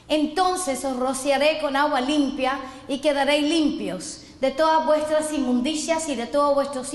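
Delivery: steady, solemn reading of the prophecy; scripture reading. Acted. Preacher reading Ezekiel to the congregation, solemn. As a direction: proclaim the verse as God's promise.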